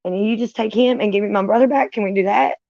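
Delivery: talking to God, begging for a trade. Retold or imitated. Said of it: "asking God, like".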